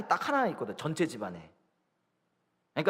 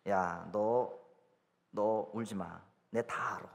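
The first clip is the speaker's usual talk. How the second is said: lightly voiced father, low and soft; low, quiet warning from a dad; unmoved father; 8 semitones lower, 5 dB quieter, much slower than usual. Father sees through fake tears. (우는 딸을 타이르는 아빠처럼 낮고 조용하게)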